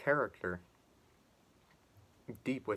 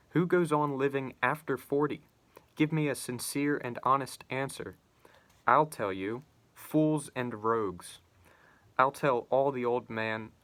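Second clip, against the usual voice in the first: impassioned literary reading, slightly raised; dramatic reading. Acted. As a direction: read the Underground Man's rant with building fervour. Reads Notes from Underground aloud.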